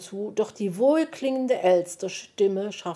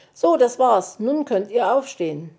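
Verkündung; 4 semitones higher, 5 dB louder than usual. Acted. Wuschel verkündet Befreiung.

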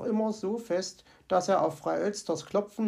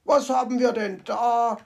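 louder surprised call; mock surprise, lightly voiced fox; 3 semitones higher, 6 dB louder than usual. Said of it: "rief er überrascht".

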